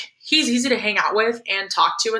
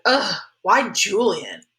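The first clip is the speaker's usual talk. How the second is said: slow, drawn-out exasperated groan; 2 semitones higher, much slower than usual. Acted. Boy complains to mom about Julian, exasperated. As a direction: groan it out in mild dismay.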